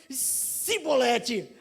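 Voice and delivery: "Cibolete" drawn out slowly with s, not sh; slow failed "cibolete". Retold or imitated. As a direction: stretch "Cibolete" out, struggling with the sound. Ephraimite fails the password. ("Cibolete" arrastado, com s no lugar de ch)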